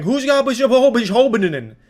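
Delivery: imitating a woman too angry to form words; mocking furious Karen. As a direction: sputter garbled words in a shrill rage. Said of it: "I don't know what the fuck she was saying".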